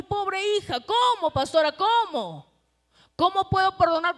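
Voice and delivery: loud, anguished protest to the pastor; pleading church member. Acted. A wronged believer protesting to the pastora, loud and anguished. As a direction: cry out how can I forgive, pressing the pastor. Voices a hurt congregant's protest.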